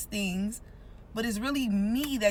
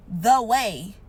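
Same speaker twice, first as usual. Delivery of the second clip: "the" pressed before "way"; weight "the" over "way"; stress on the; 2 semitones lower, 4 dB louder than usual. Shown as a demonstration. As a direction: lean on "the", then "way". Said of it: "to put an emphasis in".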